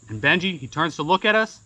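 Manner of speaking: usual speaking voice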